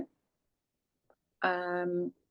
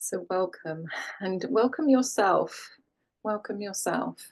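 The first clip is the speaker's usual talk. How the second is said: calm, unhurried settling-in voice with long pauses; guided meditation. Real, not acted. Yoga teacher guiding class to land and breathe, calm meditation voice. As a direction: ease the listener gently into stillness, leaving space between phrases.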